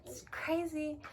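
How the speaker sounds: whispered, rising panic to herself; panicked whisper. Retold or imitated. Panicked self-talk retold.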